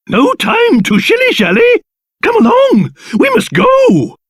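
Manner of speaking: high-pitched, urgent rallying; urgent hurrying. Acted. Leader urges companions to flee at once, urgent. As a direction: hurry them along with rising insistence.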